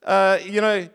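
lightly hammed-up accusation; accusing God. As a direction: complain he was set up, half-playful.

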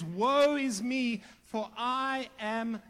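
mild slow lament. Retold or imitated. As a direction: stretch out the despair of the prophet. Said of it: "He says".

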